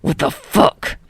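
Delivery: low breathy disbelief; gruff rasping voice. Acted. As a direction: growl it again, harder. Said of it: "And again".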